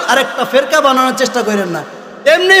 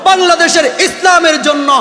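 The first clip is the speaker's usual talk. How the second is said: shouted preaching; 4 semitones higher than usual. Real, not acted. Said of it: "চিল্লায়া বলি".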